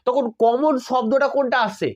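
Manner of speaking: slow, stretched question leaning on কমন; slow emphasis. Shown as a demonstration. Teacher asking students which word repeats, slow and stretched. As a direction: drag out each word so it sinks in. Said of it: "teacher asks which word repeats".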